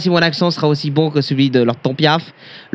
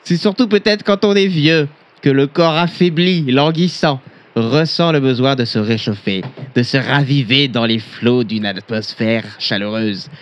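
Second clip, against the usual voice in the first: mock solemn reading; 2 semitones lower than usual. Reading the old book aloud.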